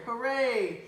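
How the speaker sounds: high, loud cheer. Acted. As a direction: cheer like a crowd. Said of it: "Everyone cheered".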